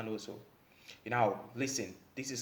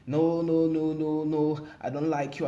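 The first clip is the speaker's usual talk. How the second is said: mock girlfriend protest; 5 semitones higher, 5 dB louder than usual. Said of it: "she starts beefing with you and saying".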